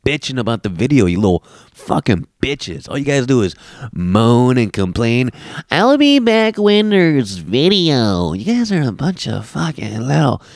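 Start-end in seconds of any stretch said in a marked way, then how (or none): 5.7-8.3 high, slow whiny complainer; whiny commenter mock. Podcaster mocking his comment section whiny.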